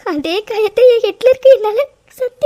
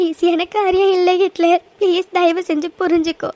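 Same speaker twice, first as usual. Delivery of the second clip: tearful; 2 semitones lower than usual. Acted. Still pleading, crying.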